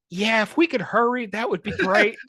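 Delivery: deadpan polite request amid chaos; nurse's understatement. Retold or imitated. Nurse politely asking help desk to hurry, mock understatement. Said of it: "she goes".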